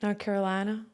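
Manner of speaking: lightly put-on North Carolina accent. Shown as a demonstration. Guest trying out her North Carolina accent for the hosts, playful North Carolina accent. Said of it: "Oh, you do it really good".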